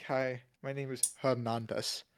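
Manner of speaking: attempted Russian accent on a Spanish name; lightly put-on Russian accent. Podcaster trying out a silly idea, mock Russian accent. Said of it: "with a Russian accent".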